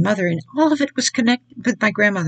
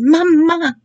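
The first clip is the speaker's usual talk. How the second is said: mock calling for mother, higher and louder; a retold cry for mama, pitched up; weak call; 7 semitones higher, 6 dB louder than usual. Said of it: "She woke up calling".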